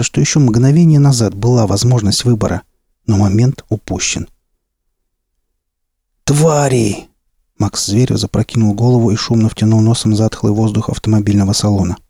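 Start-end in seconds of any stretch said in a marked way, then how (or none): 6.2-7.1 spat out in disgust; angry curse. Acted. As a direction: snarl the word with contempt. Max curses the soldiers.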